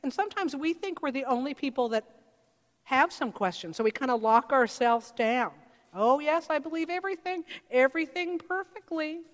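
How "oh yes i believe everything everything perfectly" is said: prim, falsely sure believer, higher; mock piety. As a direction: send up the faithful who claim no doubts. Mocking falsely confident believers.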